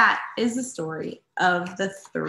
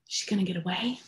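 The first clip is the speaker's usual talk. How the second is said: gasping surprise; 6 dB quieter, faster than usual. Acted. Gasp at escape.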